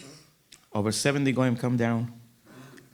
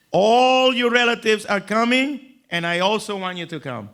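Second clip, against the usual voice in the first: lightly voiced mother inviting; mother's voice; 7 semitones higher, 5 dB louder than usual.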